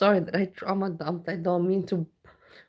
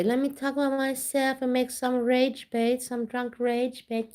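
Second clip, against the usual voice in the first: mocking A J; 6 semitones higher than usual. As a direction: parody a rage baiter. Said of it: "Or like A J".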